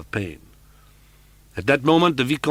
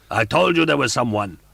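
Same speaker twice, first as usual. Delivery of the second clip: higher and louder roaring; angry roar; 7 semitones higher, 8 dB louder than usual. Acted. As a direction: roar at her in fury. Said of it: "the angry voice roared".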